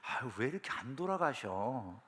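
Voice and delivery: private grumbling thought. Acted. Child handing parents a gift, grumbling inwardly, very soft. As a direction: let slip a secret resentment, kept low. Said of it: "마음속에 이런 생각이 있는 거예요".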